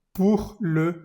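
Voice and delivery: breathy whispered pour le. Shown as a demonstration. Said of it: "teacher models phrase".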